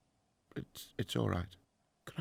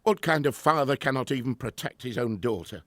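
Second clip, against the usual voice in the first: louder, bitter self-reproach; anguished outburst; 3 semitones higher, 8 dB louder than usual. Acted. Grieving professor shouting at his assistant, louder and bitter. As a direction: lash out in grief.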